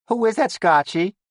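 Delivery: whiny high Bronx voice; Bronx accent. A narrator's reading. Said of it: "She had a Bronx accent".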